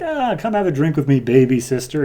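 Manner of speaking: teasing Strife. Retold or imitated. Strife offering a drink.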